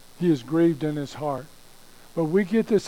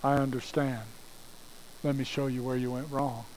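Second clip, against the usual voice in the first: softer, lower, gentle; understanding God; 3 semitones lower, 8 dB quieter than usual. Acted. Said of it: "Or do you hear God say".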